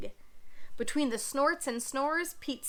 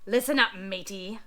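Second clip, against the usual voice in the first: grumbling pirate; 5 semitones lower than usual. Acted. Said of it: "grumbled Pete".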